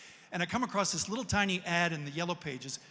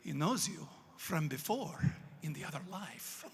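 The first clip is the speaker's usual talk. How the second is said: imitated old man; 5 dB quieter than usual. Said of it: "the old guy goes".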